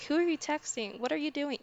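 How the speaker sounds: mock clingy partner grilling her boyfriend about texts; mock clingy girlfriend. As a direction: play the nagging clingy partner, half-joking. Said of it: "I'm not the type of person to be like".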